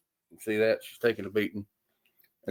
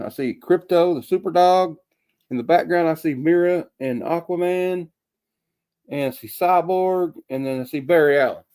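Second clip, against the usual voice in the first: higher, louder eager listing; excited shout-outs; 5 semitones higher, 3 dB louder than usual. Real, not acted. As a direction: call each hero's name out. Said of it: "I got 'em all shouted out".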